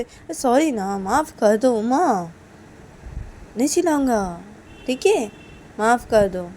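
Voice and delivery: acted apology with a persuasive lilt; pleading apology. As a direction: beg to be let off. Sanju pleads for forgiveness.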